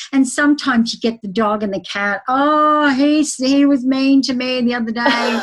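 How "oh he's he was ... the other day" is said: lightly voiced whiny cat, a bit higher; playful pet complaining about the cat; mock pet voice. Pet's voice retold in reading.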